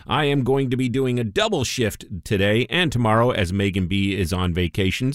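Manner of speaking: stuffy, nasal radio voice. Real, not acted. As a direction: talk through a nasal, stuffed-up voice. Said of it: "my nasally voice".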